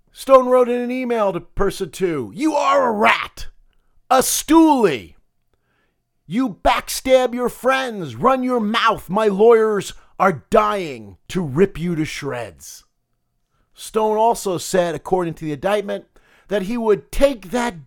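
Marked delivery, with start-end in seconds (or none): 2.3-12.8 louder, slower jeering read of the insults; a failed try at a mobster snarl; spitting the insults out, lightly mobbed-up; mild mock mobster threat. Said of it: "I was gonna try to do that in my gravelly mobster voice".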